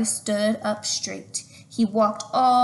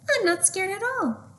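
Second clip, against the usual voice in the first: confident boast; 10 semitones higher than usual. Acted. Boy bragging before the jump.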